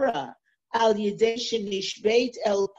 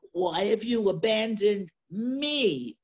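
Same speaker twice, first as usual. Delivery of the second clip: why have you abandoned me, weight on me; stress on me. Shown as a demonstration. Teacher to class, pressing the word me. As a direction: lean on me at the end, me said longer and heavier. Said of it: "Underline the me here".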